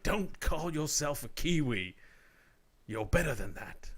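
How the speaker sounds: slow, put-on old man's Kiwi voice; old New Zealand guy. Host imagining an old New Zealander scolding, in a put-on old man's voice. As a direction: play a disapproving old New Zealander, taking it slowly. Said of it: "that old guy in New Zealand".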